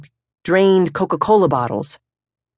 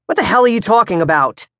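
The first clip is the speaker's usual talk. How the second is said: louder, higher annoyed father; gruff outburst; 5 semitones higher, 3 dB louder, faster than usual. Acted. Father to son at breakfast, irritated. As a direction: bark it across the breakfast table. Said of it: "Pop says".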